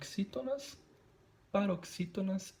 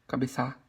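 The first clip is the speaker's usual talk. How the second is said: "cabeça" with the last syllable stressed, ca-be-ÇÁ; 4 semitones lower, 5 dB louder than usual. Shown as a demonstration. Teacher rejecting a wrong version, final stress on "cabeça". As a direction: land on the end of "cabeça". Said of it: "não".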